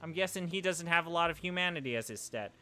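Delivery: tossing off a joke about the character, fast; amused aside. Real, not acted. Streamer jokes to viewers about the character, quick and amused. Reacting to game moment.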